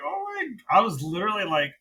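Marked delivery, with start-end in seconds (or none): 0.1-0.8 much higher, soft astonished gasp; quietly amazed gasp; retold shock. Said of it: "I was like".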